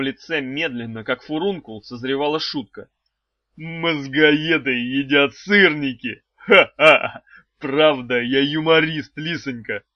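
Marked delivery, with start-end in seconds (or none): 3.6-6.2 blurted out, louder and slowed with a bark of laughter; host blurting his joke, hammed-up. A narrator's reading. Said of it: "выпалил он". 6.3-7.2 loud hammed-up ha-ha; forced laugh. A narrator's reading. Host laughing at his own joke, loud ha-ha. 7.6-9.8 blurted out, louder and slowed with a bark of laughter; host blurting his joke, hammed-up. A narrator's reading. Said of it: "выпалил он".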